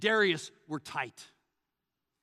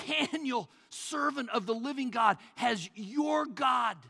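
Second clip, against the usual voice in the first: anguished call; 6 semitones higher than usual. Acted. King calling into the lions' pit, anguished. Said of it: "he called to Daniel in an anguished voice".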